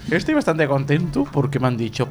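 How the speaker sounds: squeaky intern voice. Acted. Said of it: "sufro con esta voz".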